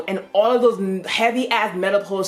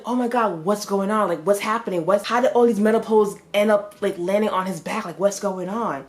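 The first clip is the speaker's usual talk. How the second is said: mildly baffled string of questions; retold confusion; 3 semitones higher than usual. Hero finds poles on someone's back, confused. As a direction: puzzle aloud, mildly thrown. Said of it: "He was so confused".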